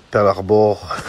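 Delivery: loud, pitch dropping at the end; shouted punchline. Real, not acted. To his viewers, bellowing the joke name. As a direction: belt out the punchline.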